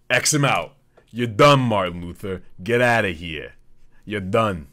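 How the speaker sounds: loud mock banishing shout; mock tirade. Host banishes Martin Luther, mock shouting. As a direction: shout him off the stage in mock outrage.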